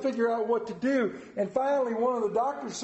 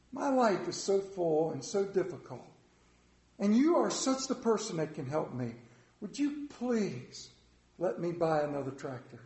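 emphatic pleading; 3 semitones lower, 3 dB quieter than usual. Shown as a demonstration. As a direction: lay on a hammed-up plea to win a favor. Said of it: "emphatic way that guarantees you".

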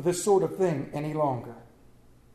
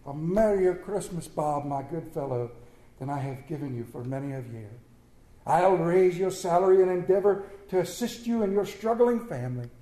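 earnest. Acted. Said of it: "with earnestness that could not be mistaken".

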